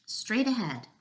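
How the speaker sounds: mildly excited storybook cry. A narrator's reading. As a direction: call out directions excitedly. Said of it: "the frogs cried out excitedly".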